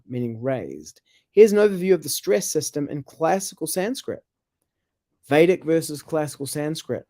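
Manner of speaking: measured explanatory read-out; even, informational reading voice; reading aloud. Acted. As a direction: read it like a reference article. Reads out an answer on Sanskrit.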